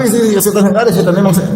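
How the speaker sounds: high, irritated brush-off; mock irritated reply; irritated retort. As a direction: wave the advice off, annoyed. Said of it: "dia malah tambah marah".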